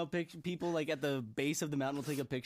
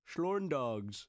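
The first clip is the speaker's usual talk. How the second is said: mock German accent. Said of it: "I am your typical German subject".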